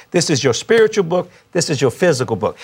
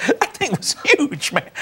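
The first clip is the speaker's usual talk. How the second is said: amazed; 10 semitones higher, 3 dB quieter, slower than usual. Real, not acted. Exaggerates fruit basket size.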